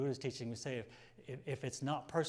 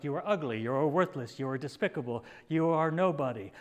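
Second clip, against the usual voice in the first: mock shout; 6 dB louder than usual. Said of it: "When they also shout".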